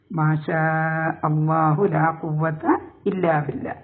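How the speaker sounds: slow, measured Quranic recitation. Shown as a demonstration. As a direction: recite with drawn-out long vowels.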